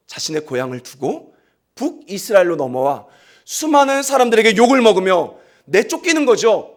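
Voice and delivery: ordinary talk, nothing marked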